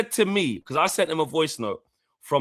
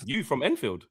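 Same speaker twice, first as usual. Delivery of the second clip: low retort; 3 semitones lower, 6 dB quieter than usual. Retold or imitated. First, low take of his retort.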